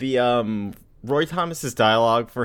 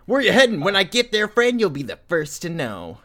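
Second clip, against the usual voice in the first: high mocking hitchhiker voice; sing-song the line up high; sassy kid; 6 semitones higher than usual. Mocking Rick's dialogue, high cocky teen. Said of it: "reading comic dialogue in voice".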